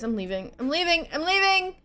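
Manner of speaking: increasingly urgent, pitch stepping upward; escalating exit announcement. Real, not acted. Fleeing enemies, repeats with rising pitch.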